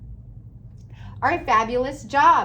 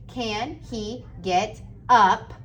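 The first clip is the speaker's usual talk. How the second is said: put-on each word drawn out slowly for a child writing; much slower than usual. Shown as a demonstration. Teacher modelling slow dictation to the class, drawn out. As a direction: stretch every word, one at a time. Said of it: "Slow down and take it slow".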